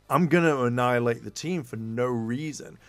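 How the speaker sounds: a lightly voiced menacing villain; a hint of a villain announcing destruction. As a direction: darken the voice into a threat, but only a little. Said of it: "he's being really, like, menacing".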